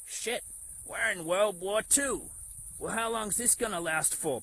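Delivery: high, loud, slow mock alarm; hammed-up panic, pitched high; mock panicked quote. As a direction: ham up a panicked bystander. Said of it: "people weren't running around and saying".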